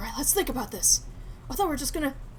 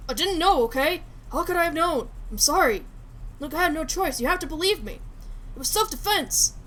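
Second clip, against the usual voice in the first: desperate pleading; 3 semitones higher, 5 dB louder than usual. Acted. Pleading for his life.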